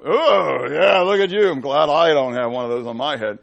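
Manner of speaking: loud, gloating jab at everyone else; smug mockery. Imitating a smug believer gloating at other people's meters. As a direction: crow over other people's meters, loudly.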